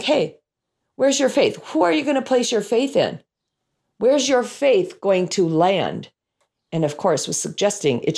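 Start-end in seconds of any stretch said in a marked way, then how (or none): 0.0-6.1 gentle questioning. Retold or imitated. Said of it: "His question was more like".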